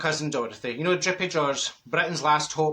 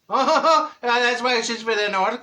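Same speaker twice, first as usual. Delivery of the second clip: loud laugh through the words; delighted chuckle at her own logic; laughing realisation; 5 semitones higher, 4 dB louder, slower than usual. Real, not acted. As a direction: laugh as it dawns on you.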